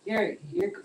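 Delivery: dragged out, time-smeared speech; stretched slow like a laggy call; slowed echoing voice. Real, not acted. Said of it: "going way too slow".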